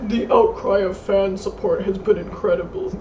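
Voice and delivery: bad robotic speech-synth voice; flat computer voice, one word at a time; Stephen Hawking voice. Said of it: "a bad Stephen Hawking voice".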